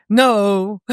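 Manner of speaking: a firm, emphatic no; strong no. Shown as a demonstration. Still-upset partner flatly denying being angry, firm emphatic no. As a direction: plant the word No. hard and final. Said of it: "And you say it in a very strong way".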